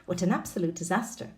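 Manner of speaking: "What an absolute disaster" run together quickly; fast model reading. Shown as a demonstration. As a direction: rattle it off fast with everything linked. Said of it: "We've got an example".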